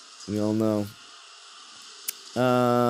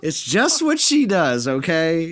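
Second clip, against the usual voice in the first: whiny voice; 3 semitones higher than usual. Retold or imitated. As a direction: whine it like a mocking impression. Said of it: "we do the whiny voice".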